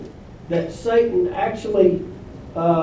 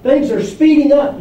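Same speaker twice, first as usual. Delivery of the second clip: speeding up; 5 semitones higher, 3 dB louder than usual. Shown as a demonstration. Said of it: "Look at all the verbs".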